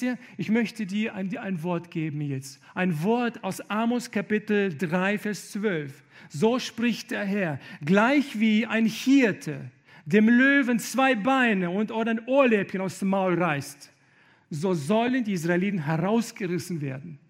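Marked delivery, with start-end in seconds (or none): 6.3-17.2 scripture read at full force. Acted.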